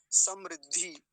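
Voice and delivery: समृद्धि slow and loud, sam-rid-dhee; correct ri sound. Shown as a demonstration. Teacher showing "like this", slow clear ri. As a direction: stretch समृद्धि with a clear short ri. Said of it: "ऐसे".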